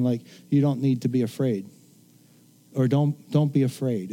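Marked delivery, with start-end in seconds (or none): 0.5-1.6 soft, comforting parent tone; gentle reassurance. Retold or imitated. Parent holding a frightened child, softly reassuring. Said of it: "hold the child and say something". 2.9-4.1 soft reassuring parent voice; comfort, don't scold; gentle, not scolding. Retold or imitated. Parent calming a scared child, gentle not scolding. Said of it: "It's like, it's not a scolding".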